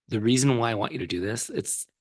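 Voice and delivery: hoarse, voice giving out; losing voice. Real, not acted. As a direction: push through a hoarse, fading voice. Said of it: "Sorry, I'm losing my voice".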